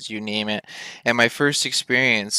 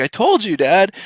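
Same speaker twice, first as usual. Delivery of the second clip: told you so; 8 semitones higher than usual. Retold or imitated. Vindicated to dad.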